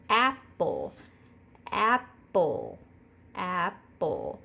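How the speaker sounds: Apple split into ap-ple; syllable demo. Shown as a demonstration. Teacher sounding out Apple for the class. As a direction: give Apple two clear beats. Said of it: "say the word apple".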